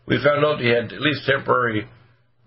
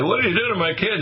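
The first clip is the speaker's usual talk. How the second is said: put-on much higher, amazed "What did you do to my kid?" with rising "did"; amazed parent; 9 semitones higher than usual. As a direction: ask it as a stunned, delighted parent. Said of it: "And they say".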